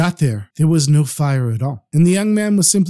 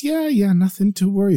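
nervous; 5 semitones higher than usual. Acted. Merchant covering up.

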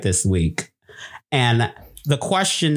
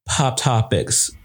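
slow intro; 2 semitones lower, much slower than usual. Acted. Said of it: "most awkward pop topic intro ever".

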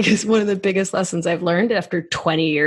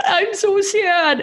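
put-on very high, slow, whiny toddler voice; sad little kid; 13 semitones higher, slower than usual. Podcaster mimicking a sobbing toddler, high and drawn out. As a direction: drag it out like a pouting child. Toddler crying over finger.

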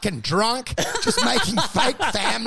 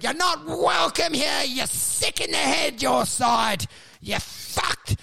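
hostile mock rejection; 5 semitones higher, slower than usual. Family rejecting returning descendant.

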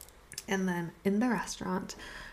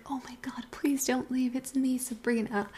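higher-pitched retold plea; acted pleading; 5 semitones higher than usual. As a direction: beg him to stay, voice lifted. Arrives running, begs him to stay.

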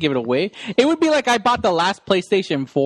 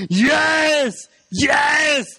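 excited shout; 7 semitones higher than usual. Retold or imitated. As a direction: yell it in triumph. Impersonating Schwarzenegger shout.

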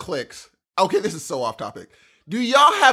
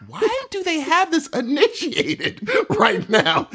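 laughing; 9 semitones higher, slower than usual. Retold or imitated. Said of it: "I was like".

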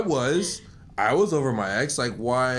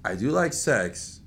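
low confiding voice; 8 semitones lower, 5 dB quieter than usual. Retold or imitated. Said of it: "you're just like".

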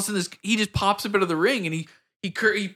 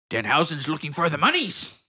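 lightly voiced strange character; mannered wrestler imitation; Danhausen. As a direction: announce it in an odd persona. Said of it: "that's how he talks the whole time".

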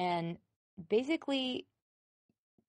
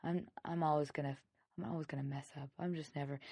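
defeated self-talk; 4 dB quieter, faster than usual. Retold or imitated. Speaker voicing someone stuck in habit, resigned. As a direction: imitate someone giving up, voice sagging.

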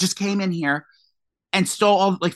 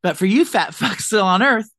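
high, bright sponsored-ad voice; influencer ad from the grave; 4 semitones higher, 3 dB louder than usual. Pretend. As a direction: hype it like an influencer ad. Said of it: "I'm gonna, like".

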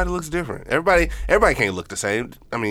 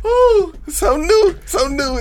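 high, drawn-out teasing coo; exaggerated high-pitched ooh of fake wonder; mock admiration; 4 dB louder, slower than usual. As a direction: coo over it mockingly. Acting out mock admiring remark.

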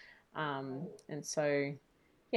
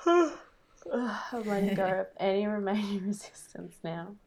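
whispering; 2 semitones higher, 6 dB louder than usual. Real, not acted. Repeating phrase through a yawn.

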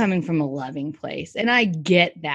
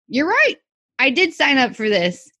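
mock agreement; 4 semitones higher, 4 dB louder than usual. Acted comeback to an idiot's remark.

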